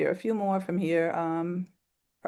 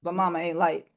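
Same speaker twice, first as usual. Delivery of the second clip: measured, sober storytelling read; poem reading. Acted. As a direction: read it steady and a bit somber. Reads poem When Mama Pass Out.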